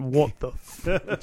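very slow, trailing stunned Texan; cut-off mock confusion. Retelling the Dallas trip, a mild mock stunned stranger. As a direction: let the confused man's words die mid-curse.

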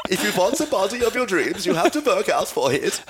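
put-on high-pitched camp Austrian accent; Arnold Schwarzenegger. Host answers with his joke impression, high Austrian accent. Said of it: "That's my Arnold Schwarzenegger".

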